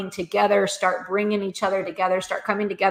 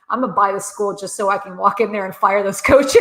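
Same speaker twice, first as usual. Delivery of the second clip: laughing through it; 5 dB louder than usual. Retold or imitated. Retelling son's funny quote.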